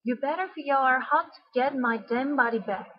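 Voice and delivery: "how" stressed; emphatic reading with weight on "how"; stressed with emotion. Shown as a demonstration. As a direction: lean on "how" in the demand. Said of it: "put the stress on the words".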